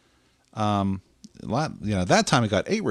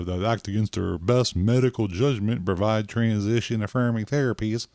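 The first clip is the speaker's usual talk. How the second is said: put-on slipping into a Southern accent; lightly Southern-accented mock statement. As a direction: let a Southern twang creep into the quote. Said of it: "I'm getting the Southern accent all of a sudden".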